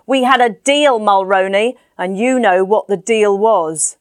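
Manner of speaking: man in grey coat shouting back at the landlord. Acted. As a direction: yell it through the door, then spell out the threat. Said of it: "shouted back through the door".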